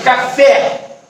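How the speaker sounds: café with the final E wide open. Shown as a demonstration. Teacher demonstrating open vowels, café with open E. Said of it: "O E fica claro que é aberto".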